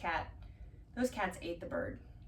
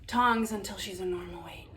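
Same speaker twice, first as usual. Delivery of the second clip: whisper; 5 dB louder than usual. Real, not acted. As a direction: drop to a hush so the kittens stay calm. Hushed remark near kittens.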